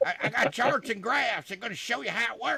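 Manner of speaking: very loud, high-pitched put-on voice, belted out. Showing an impression done a while back: Ross Perot impression. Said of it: "I got to do H. Ross Perot".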